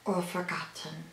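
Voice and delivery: lightly voiced Stitch; a hint of the alien Stitch; Stitch impression. Shown as a demonstration. Vlogger imitates Stitch quoting ohana, lightly alien.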